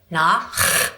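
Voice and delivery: Nach with a rasped German ch; throaty German ch in Nach; German guttural. Shown as a demonstration. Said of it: "Try it".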